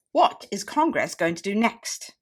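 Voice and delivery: slow question, pitched a little high. Shown as a demonstration. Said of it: "High pitch".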